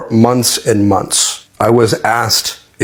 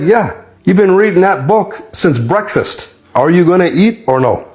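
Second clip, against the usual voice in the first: higher-pitched, insistent cellmate imitation; nagging cellmate; 8 semitones higher than usual. Cellmate to a man lost in his book, imitated nagging.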